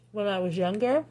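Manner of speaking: talking while chewing; words round a mouthful of donut; mouth full. Real, not acted. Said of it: "Sorry, I'm eating, I'm chewing".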